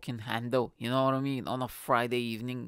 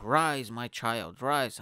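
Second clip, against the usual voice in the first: slow, drawn-out grand pronouncement; mock-solemn blessing; much slower than usual. Comedian raising the ducked-down girl, mock-solemn and slow. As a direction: stretch it like a joking holy man.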